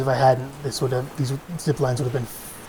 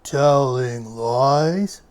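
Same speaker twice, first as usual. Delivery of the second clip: 1 mock stern papa; 3 semitones lower, 4 dB louder, much slower than usual. Papa voice in rhyme, louder slower.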